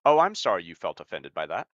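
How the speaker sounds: lightly mock the fake-sorry tone with a rising "Oh"; manipulator fake apology. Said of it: "that's exactly how they talk".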